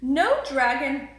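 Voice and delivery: put-on high eager boy voice; panting boy. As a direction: ask it breathless and high. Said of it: "panted George".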